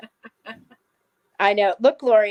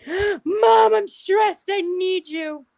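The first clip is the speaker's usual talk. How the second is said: high, pleading dog voice; needy dog; 9 semitones higher, 3 dB louder, much slower than usual. Pretend. Voicing the dog asking mom for support, high and pleading. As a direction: whimper it like a clingy pet. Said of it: "she is like".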